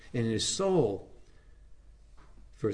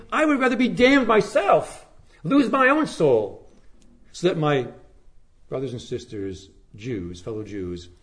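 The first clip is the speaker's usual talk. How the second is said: anguished plea. Acted. Preacher voicing Paul's plea for his brothers, rising then fading to a whisper. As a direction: cry it out, then let it die away to a whisper.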